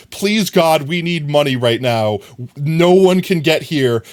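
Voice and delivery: hammed-up desperation; imitated desperate plea. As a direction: act out begging, dragging the last phrase. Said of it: "the infliction of the voice made it seem like".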